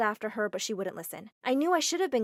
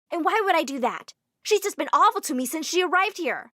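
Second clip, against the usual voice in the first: higher, loud defensive shout; indignant protest; 6 semitones higher, 7 dB louder than usual. Acted. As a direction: fire back at mom. Daughter arguing back with mom.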